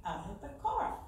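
soft, fast, breathless instructions; weak urgent orders. Retold or imitated. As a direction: give orders weakly through faintness. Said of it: "I said".

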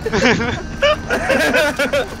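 hammed-up wounded soldier yelling; man down shout. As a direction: scream for a medic like you're dying. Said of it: "I just joined in with him".

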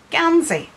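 "gansey" called out high and loud; Ulster Scots word. Shown as a demonstration. Artist teaching viewers the Ulster Scots word "gansey", called out high. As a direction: sing out "gansey" like a teacher listing words.

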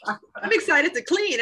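laughing through the words, slowed and high. Real, not acted. Woman laughing at her own joy in cleaning. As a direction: giggle it out, amused at yourself. Laughing at herself mid-story.

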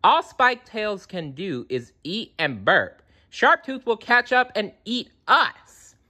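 put-on scornful girl. A narrator's reading. Sarah warns.

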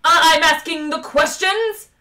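high, slow, apoplectic howl; drawn-out, high enraged shout; furious howl. A narrator's reading. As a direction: howl it, quaking with rage. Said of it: "howled number two".

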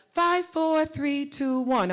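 walk the voice down from five to one; descending register scale. Shown as a demonstration. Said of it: "practice in different registers".

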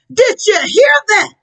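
thrilled call to the crowd, voice cracking; amazed Jesus calling out to the crowd; excited. Acted. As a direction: share the wonder with the crowd. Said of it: "Jesus got excited".

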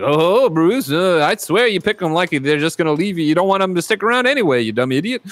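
lightly acted needling buddy, lifted pitch; mock scolding of a hopeless friend; Arthur Reeves. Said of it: "Arthur Reeves comes over and is like".

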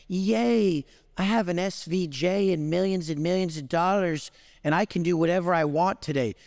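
mock the smug happy millionaire; mock cheerful rich guy. Mocking lazy rich people who wake up content, mild mock glee. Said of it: "you fucks would wake up and be like".

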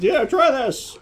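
high, put-on dad voice; dad impression. Player quoting dad tricking them into eating squid, high caricature. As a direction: pitch it up into a silly fake father. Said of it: "he doesn't talk like that".

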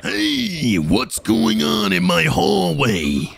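a slow, lightly put-on principal; a touch of stern principal barking down the hall; principal's voice. Principal discovering chickens in the hallway, mildly stern. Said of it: "it's the principal".

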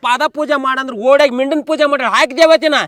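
scornful tirade. Acted. Friend deriding husband's goddess wife, scornful tirade. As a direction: scoff hard at the praise.

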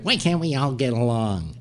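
put-on pleading voice; Leno. Leno to Letterman in the commercial, mimicked pleading. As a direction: imitate a peacemaker's plea in an odd voice. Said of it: "Leno's saying things like".

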